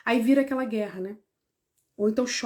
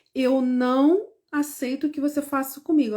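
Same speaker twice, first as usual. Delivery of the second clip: firm, clear boundary. Shown as a demonstration. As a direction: stress on "não". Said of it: "deixar isso bem claro".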